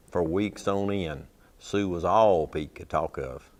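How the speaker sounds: easy storytelling cowboy poet cadence; cowboy poem recitation. Acted.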